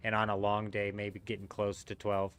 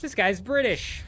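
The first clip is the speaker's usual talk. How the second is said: high, loud, slow British "This guy's British"; British accent; 10 semitones higher, 6 dB louder than usual. Shown as a demonstration. Proving his accent to friends, hammed-up British accent. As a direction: say it like a posh Brit, high and slow. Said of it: "if you heard me speaking in that accent".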